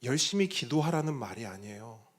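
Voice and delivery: ordinary talk, nothing marked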